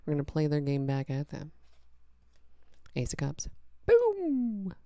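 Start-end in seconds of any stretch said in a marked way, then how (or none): 3.9-4.7 high burst of joy; excited exclamation. Real, not acted. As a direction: pop it out with delight. Excited card reveal.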